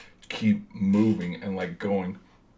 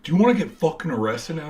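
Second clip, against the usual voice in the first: higher-pitched mock threat; threatening guard; 7 semitones higher than usual. Guard pulls him close to threaten arrest, mock anger. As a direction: imitate a worked-up security guard.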